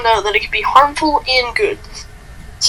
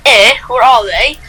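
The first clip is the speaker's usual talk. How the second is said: put-on Canadian accent; 4 dB louder than usual. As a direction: ask it with a light Canadian accent. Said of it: "Why do you always have to have a Canadian accent?".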